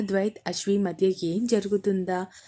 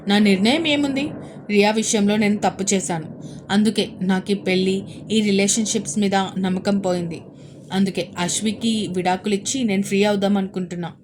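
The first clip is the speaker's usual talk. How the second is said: firm and decided; 4 dB louder than usual. Acted. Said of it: "దృఢ నిర్ణయానికి వచ్చిన వాడిలా".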